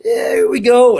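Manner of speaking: high, strained re-enacted fan yell; imitated yelling. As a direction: act out yelling at a whole rival section, pitch way up. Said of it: "I'm, like, yelling at the whole Wisconsin section".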